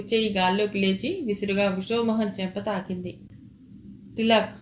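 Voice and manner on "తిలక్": a light call of Tilak, a bit louder; mild shout. Acted. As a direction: call his name out, understated. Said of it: "గట్టిగా అరిచాడు".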